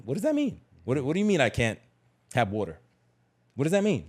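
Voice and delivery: high, baffled "what does that mean"; incredulous childlike questioning; mock bewildered kid. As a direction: play a spoiled kid who has never heard no. Kid puzzled at being refused.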